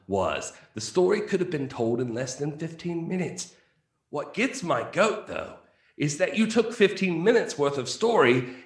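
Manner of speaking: lightly put-on British accent, mock posh review reading; professional accent. Host reading a fan's angry review aloud, in a mild mock British accent. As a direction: read it like a snooty British critic, only lightly. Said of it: "I'll read this in a nice professional accent".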